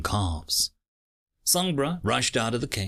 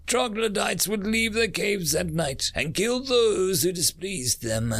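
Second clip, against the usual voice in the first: raised, impassioned speech voice; fiery passion; 8 semitones higher than usual. Acted. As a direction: rouse the crowd with fire. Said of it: "The woman's passion was fiery".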